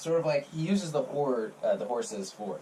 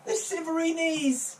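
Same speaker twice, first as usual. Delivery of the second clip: whiny liar voice; 13 semitones higher than usual. Acted. NPC naming fake disease.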